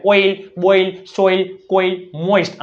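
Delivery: "ઓઇલ, બોઇલ" as whole measured words; OI recap. Shown as a demonstration. Teacher recapping OI, "સોઇલ" said slowly as one word. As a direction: list "કોઇલ, મોઇસ્ટ" with clear OI, not split. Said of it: "આમાં ઓય આવે".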